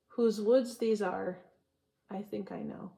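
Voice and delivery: slow, measured poetry recital; poem reading. Acted. Reading her favourite poem aloud to viewers, slow and measured. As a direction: savour each line of the poem.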